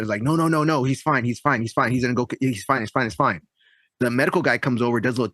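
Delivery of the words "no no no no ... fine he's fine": mock upset dad. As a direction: imitate a dad brushing off concern, mildly upset. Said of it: "The dad gets all upset".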